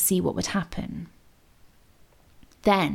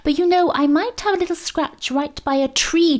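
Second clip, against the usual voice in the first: raised voice; 8 semitones higher than usual. A narrator's reading. Nan to fisherman, slipping Mo a hidden message, voice raised. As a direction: pitch it up so a hidden boy hears. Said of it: "She raised her voice a little bit".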